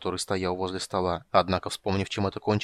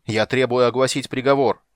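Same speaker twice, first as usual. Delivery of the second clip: louder accusing cry; shouting knight; 8 dB louder than usual. Acted. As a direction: call it out to the court. Knight demanding verdict.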